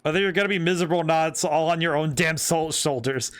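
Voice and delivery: a light Southern US drawl, scolding. Acted. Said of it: "Southern drawl Chihaya".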